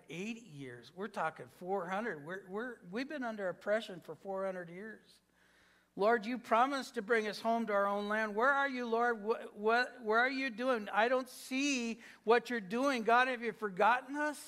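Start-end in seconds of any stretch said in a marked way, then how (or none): 5.9-14.4 acted plea, pitched up and insistent; higher-pitched, pressing prayer of complaint; begging God. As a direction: plead as an oppressed people demanding answers from God. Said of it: "They begged God".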